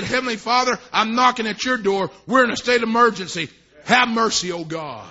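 preacher re-enacting an emergency prayer; pleading prayer, dropping away at the end; retold urgent prayer. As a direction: pray it urgently, then sink on the last words.

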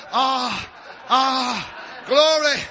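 laughing through the praise; joyful laughing worship. Acted. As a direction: bask and laugh for joy. Basking, laughing in glory.

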